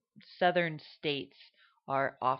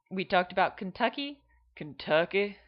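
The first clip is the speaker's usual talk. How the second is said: Kentucky accent; 4 semitones higher, 5 dB louder than usual. Shown as a demonstration. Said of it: "more back of the throat".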